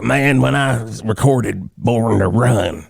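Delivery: slow Jersey rocker impression; a rock singer. Host mimicking a rocker recalling his record, Jersey accent. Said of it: "your rock-singer Jersey accent".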